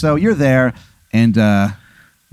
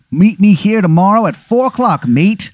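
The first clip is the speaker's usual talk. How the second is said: high-pitched bad English accent; terrible English accent; 8 semitones higher than usual. Rival setting the showdown in a terrible English accent. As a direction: issue a challenge in a badly faked, high English accent. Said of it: "He's got a terrible English accent".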